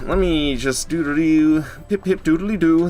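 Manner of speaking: high, goofy doodle-doo singsong; high silly nonsense ditty. Real, not acted. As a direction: noodle along playfully. Silly humming while navigating.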